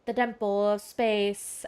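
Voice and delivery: lightly put-on formal oracle, measured; solemn watcher. Watcher naming the seat above the skies, mildly solemn voice. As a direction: pronounce it with a touch of mystery. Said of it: "why I'm talking like that".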